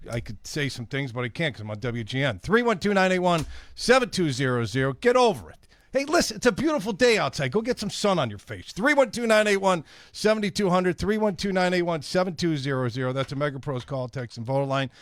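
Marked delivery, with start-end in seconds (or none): 2.4-4.9 loud fired-up number read. Real, not acted. Host shouting the number. 4.9-8.7 higher, louder mock-scolding rant. Real, not acted. Host yelling at New Yorker. 8.7-13.1 loud fired-up number read. Real, not acted. Host shouting the number.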